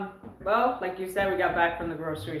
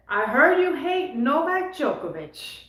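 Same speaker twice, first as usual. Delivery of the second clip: lightly imitated Serbian accent, higher and slow; hint at a Serbian woman's accent, drawn out; 5 semitones higher, slower than usual. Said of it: "she said in her accent".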